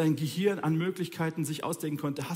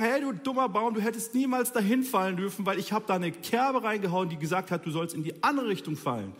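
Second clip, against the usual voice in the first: mock complaint to a tree; 3 semitones higher than usual. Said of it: "Dann kannst du sagen".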